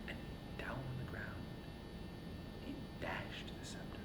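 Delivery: whispered, barely audible telling; storyteller whispering the dramatic moment; hushed narration. A narrator's reading. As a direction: drop to a whisper for the fall of the scepter.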